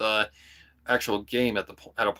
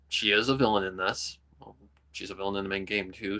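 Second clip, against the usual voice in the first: normal talking voice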